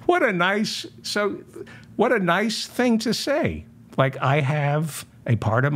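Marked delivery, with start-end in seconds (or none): 0.1-3.6 sarcastic. Acted. Sarcastic reply to "kiss my ass.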